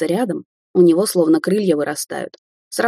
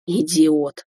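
snort. Acted. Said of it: "фыркнула Кварц".

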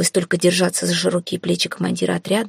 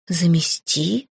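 «Замести?» slow and drawn out, rising at the end; stunned echo; much slower than usual. A narrator's reading. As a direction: repeat «Замести?» slowly in disbelief. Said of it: "вытаращилась я".

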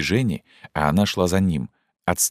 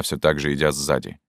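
normal talking voice

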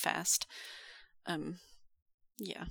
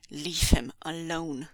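low, slow, deliberate command; measured, commanding tone; firm order; 3 semitones lower than usual. Acted. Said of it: "he ordered".

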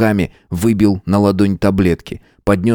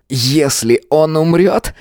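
furious threat; 8 semitones higher than usual. A narrator's reading. Matvey furiously threatens Georg. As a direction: swear it furiously.

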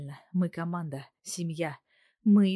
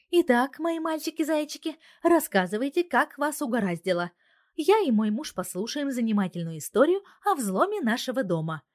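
higher, louder sugary menace; mock sweet; 8 semitones higher, 5 dB louder than usual. A narrator's reading. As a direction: purr at the boys before the kill. Wife mock-sweetly toying with hackers. (притворно-ласково, с угрозой)

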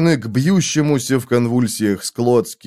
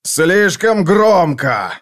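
slow, higher-pitched pained cry; cried out; 5 semitones higher, much slower than usual. A narrator's reading. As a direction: cry out, stretching each word in agony. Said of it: "закричал он".

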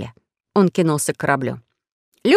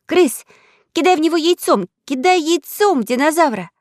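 raised high calling voice; Alice shouting; 9 semitones higher than usual. Acted. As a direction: call out urgently across the field. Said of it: "закричала".

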